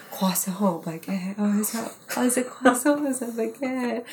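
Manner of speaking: put-on fumbling improvised French accent; mock French accent. Actress improvising French at an audition, hesitant mock French accent. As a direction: grope for words in a fake French accent. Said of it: "why don't you just try speaking a bunch of French".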